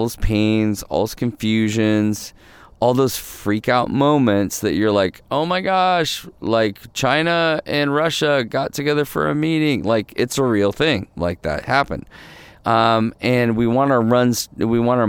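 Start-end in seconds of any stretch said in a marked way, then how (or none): 5.3-9.8 higher-pitched imitation of someone freaking out; mock panic. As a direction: play a worried listener, half joking.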